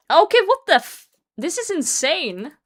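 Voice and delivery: high, loud, cut-off outburst; high loud cry of disbelief. Real, not acted. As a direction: yelp it in disbelief. Reacting to bad loot.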